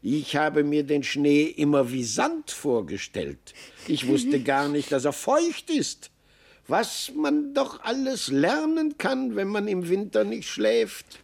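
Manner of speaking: a lightly voiced marmot amazed at snow; marveling marmot.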